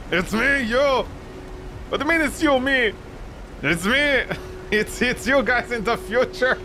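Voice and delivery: a pug pleading it's their future self; frantic pug. Pretend. Pug and wolves arguing.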